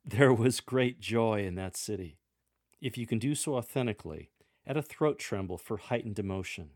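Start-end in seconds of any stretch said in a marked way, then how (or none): 0.0-2.2 bright joyful read, a touch louder; a reader beaming over great joy; smiling broadly. Shown as a demonstration. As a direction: smile through the words with joy. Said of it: "Use eye contact and smile broadly".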